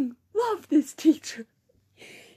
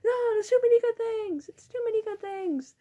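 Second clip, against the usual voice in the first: pitched up teacher imitation; mock teacher quote; 9 semitones higher than usual. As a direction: echo the teacher, higher. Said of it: "He's like".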